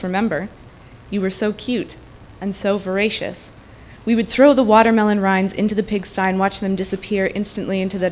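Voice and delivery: measured reading-aloud voice, close to her own; a lightly performed fiction reading; literary reading. A narrator's reading. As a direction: read the story to the room, steady and unhurried. Author reads her translated story.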